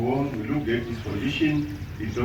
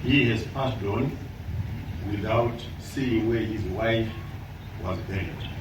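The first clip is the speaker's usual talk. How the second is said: offering condolences; 5 dB quieter than usual. Real, not acted. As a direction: grieve quietly for the departed. Eulogy mourning the deceased.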